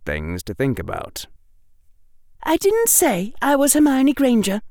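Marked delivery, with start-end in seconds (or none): 2.4-4.6 bright, quick schoolgirl; prim helpful girl, quick and high; young girl voice. Acted. Hermione voiced in story.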